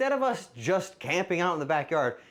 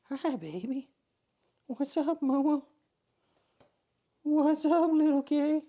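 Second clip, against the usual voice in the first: very high cooing pet voice; 11 semitones higher than usual. Real, not acted. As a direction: coo sweetly at the kitty. Baby talk to the cat.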